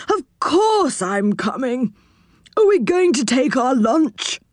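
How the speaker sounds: high, comical eagerness; high saucepan man, keen to join in; quirky character voice. Acted. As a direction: answer in an odd high character voice.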